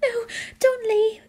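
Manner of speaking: high, whimpering plea; pleading. A narrator's reading. Student begs teacher to stay, pleading. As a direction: beg in a high tearful voice. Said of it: "I pleaded".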